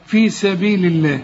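الله recited with a thin L, "lilleh"; light lam in الله. Shown as a demonstration. Teacher repeats the correct reading, الله said thin. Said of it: "ترقق لفظ الجلالة".

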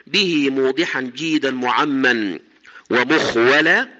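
slow, measured chanting of didactic verse; slow, projected classical verse reading; verse recitation. Acted. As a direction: recite the poem deliberately, drawing out line endings.

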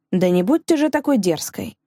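usual speaking voice

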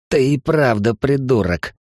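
slow, each word spelled out with relish; clipped relish. Acted. Эл relishing the insult to his old comrade, slow and deliberate. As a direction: rap out each word, enjoying it. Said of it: "отчеканил Эл с каким-то удовольствием".

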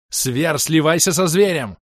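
high, loud, drawn-out yell; urgent shout. A narrator's reading. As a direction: shout a desperate order across the battle. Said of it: "снова крикнул Ирвин".

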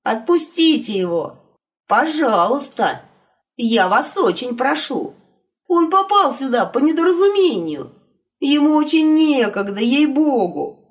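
pleading wolf. Acted. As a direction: beg them to let him go. (умоляющий голос волка)

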